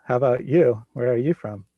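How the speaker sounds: ordinary talk, nothing marked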